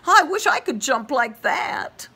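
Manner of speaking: very high, tiny tadpole voice. Acted. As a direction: squeak it like a baby tadpole. Tadpole wishes.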